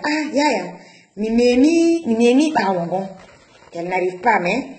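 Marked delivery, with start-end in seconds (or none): 0.0-3.1 lightly voiced nurse, a bit higher and louder; assistant speaking in local language. Nurse telling Yaya she can't pull the baby out, lightly voiced. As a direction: call to Yaya in her own language. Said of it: "Elle dit à Yaya".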